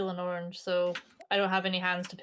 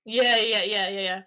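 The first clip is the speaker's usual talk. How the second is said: excited; 7 dB louder, slower than usual. Real, not acted. Eager agreement, very loud.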